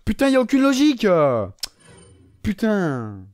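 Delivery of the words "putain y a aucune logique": high, indignant complaint; pitched-up gamer frustration; exasperated outburst. Real, not acted. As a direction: protest in real outrage. Raging at the game's lack of logic.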